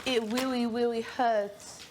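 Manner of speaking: put-on slow, lisping baby voice; baby talk. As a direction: whine it like a toddler, slowly. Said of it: "Is that how you guys talk".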